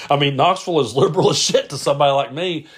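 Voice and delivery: real laugh bubbling into brisk speech; amused. Real, not acted. Host joking to listeners about Knoxville, amused and laughing.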